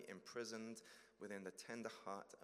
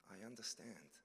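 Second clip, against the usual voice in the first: calm Jesus; 4 dB quieter than usual. Acted. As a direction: answer quietly and kindly. Jesus answers.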